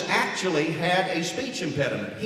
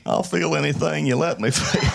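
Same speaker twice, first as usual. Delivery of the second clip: Clinton impression; 3 semitones lower than usual. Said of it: "Then it became".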